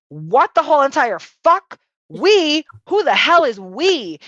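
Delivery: high, incredulous outburst; baffled disbelief. Retold or imitated. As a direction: throw it out in stunned disbelief. Baffled reaction to voices in head.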